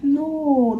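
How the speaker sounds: high, drawn-out mock "no"; retold reassurance. Social worker to worried mother, imitated reassuring no. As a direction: imitate someone soothingly dismissing a fear.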